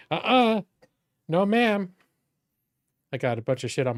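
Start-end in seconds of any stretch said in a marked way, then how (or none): 0.1-1.9 higher, louder mock-stern no to the puppy; playful scolding. Real, not acted. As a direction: tell the dog off, half-joking.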